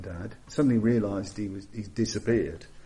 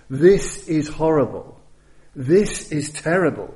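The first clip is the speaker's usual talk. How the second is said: panicked repeating; 3 semitones higher, 6 dB louder than usual. Retold or imitated. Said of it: "just repeating that phrase".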